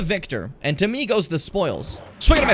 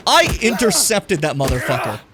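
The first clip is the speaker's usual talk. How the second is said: louder bragging declaration; proud boast; 5 dB louder than usual. Real, not acted. Streamer bragging to chat about a kill, loud proud boast. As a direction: announce it like a trophy.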